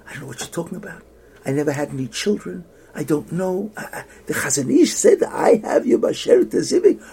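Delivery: retold panic rising to high, loud protest; acted-out bewildered panic, climbing in pitch and volume; panicked. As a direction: start hushed, build to a flustered outcry. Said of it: "And she panicked".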